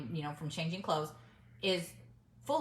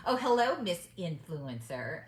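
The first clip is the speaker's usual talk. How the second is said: mock-friendly hello, louder at the start then slowing; sarcastic greeting; slower than usual. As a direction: imitate a sarcastic put-down, drawing out the name. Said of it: "in her loud, sarcastic voice".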